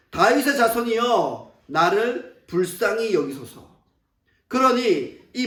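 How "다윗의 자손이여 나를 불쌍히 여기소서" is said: slow, drawn-out mild mock cry; retold louder cry. Preacher voices the blind man begging Jesus, slow pleading cry. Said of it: "더 크게 소리 지릅니다".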